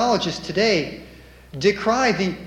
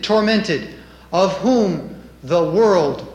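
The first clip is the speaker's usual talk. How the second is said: emphatic, declaimed roll call of sufferings; scripture reading; 4 dB louder, slower than usual. Acted. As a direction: hammer out each item like a preacher reading scripture.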